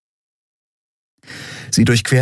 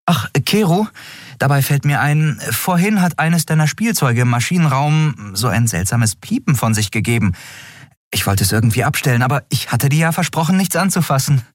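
put-on higher, fast, eager young captain; Endriel voice; 9 semitones higher than usual. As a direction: push the crew along, a bit rushed. Endriel neckt Keru. (höhere, eilige Stimme der jungen Kapitänin)

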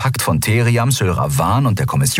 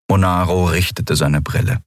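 ordinary delivery

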